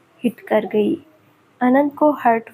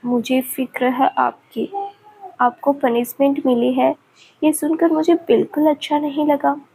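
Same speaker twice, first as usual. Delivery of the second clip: tearful and innocent; 4 semitones higher than usual. Acted. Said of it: "Meera रोते हुए बेहद मासूमियत से".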